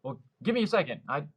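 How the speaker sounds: high, quick and determined; a kid rushing back out for the record; excited "I'm gonna go do it"; eager resolve. Retold or imitated. Learning of world record.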